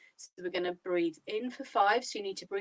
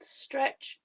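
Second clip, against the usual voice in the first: whispered; 4 semitones higher than usual. Shown as a demonstration. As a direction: whisper the instruction gently. Guided breathing, stretching arms up.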